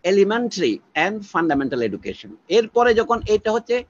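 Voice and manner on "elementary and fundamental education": slow lecture-style English phrase; slow, deliberate English. Shown as a demonstration. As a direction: spell out each English word slowly. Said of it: "ইংরেজিতে বললে বোধহয় আরো ভালো হয়".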